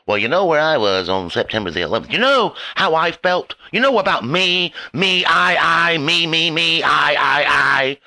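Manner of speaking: lightly mocking whiny me-me-me chant; mocking self-obsessed voice. Ranting vlogger to the crowd, in a light mocking me-me-me whine. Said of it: "That's what the fuck you sounded like".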